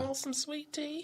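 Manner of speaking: high, slow Southern belle lilt; drawn-out, high-pitched Southern belle; Southern belle accent. Acted. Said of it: "I love that Southern Belle accent".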